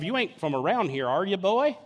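lightly put-on country accent; a hint of folksy local accent. Locals questioning an outsider Levite, in a light country accent. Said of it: "They must have noticed his accent".

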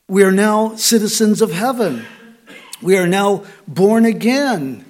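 preacher driving home "now" with repeated weight; stress on now. Real, not acted. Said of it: "I'm emphasizing the word now".

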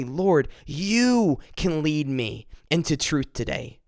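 slow, earnest prayer of surrender; surrendering to the Lord in prayer; gentle prayer. Retold or imitated. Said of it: "I say".

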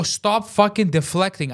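high, slow angry order; emphatic retold outburst; retold screaming. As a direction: hammer out the demand. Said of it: "as I'm screaming".

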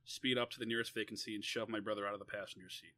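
measured, deliberate read-aloud; story reading. A narrator's reading. Author reading an essay about defending a brother, measured narration. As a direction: read it out in phrases with pauses.

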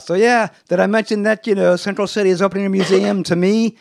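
self-satisfied superhero showing off; bragging Flash. Retold or imitated. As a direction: play the showboating hero hinting at his own museum. Flash bragging to teammates, retold.

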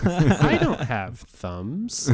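slow dog voice. Pretend. Voicing the dog's thoughts.

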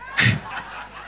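short, voiceless chuckle; quick amused chuckle; laugh. Real, not acted. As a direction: laugh it off in a breath. Laughs at kids' question.

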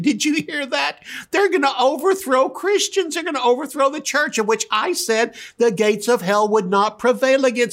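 high, amused, chuckling voice; God laughing down at the plotters. Retold or imitated.

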